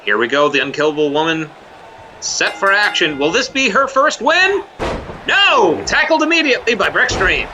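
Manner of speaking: live ringside play-by-play call; wrestling commentator. Acted. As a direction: call the match like a TV announcer.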